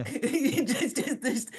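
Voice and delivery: laughing through the words; words breaking into a real laugh. Real, not acted. Laughs at her own punchline.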